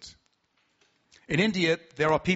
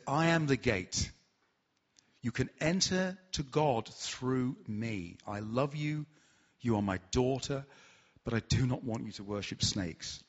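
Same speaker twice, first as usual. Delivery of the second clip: gentle Jesus; 3 semitones lower, 4 dB quieter than usual. Retold or imitated. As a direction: tenderly reassure a lost daughter. Jesus speaks in a dream.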